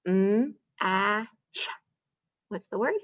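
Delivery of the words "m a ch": "Wa-ile" split into onset and rime; sounding out. Shown as a demonstration. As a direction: segment the word for the kids. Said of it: "And the last one".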